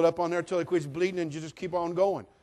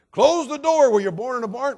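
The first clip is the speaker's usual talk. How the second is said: high, loud mother's snap; hammed-up scolding mom; 9 semitones higher, 12 dB louder than usual. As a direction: yell at the kid left the door open. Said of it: "Great answers that your mother".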